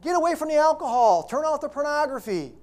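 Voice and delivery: God's angry rebuke. Acted. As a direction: yell it like an angry father catching his kids. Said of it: "No, God says".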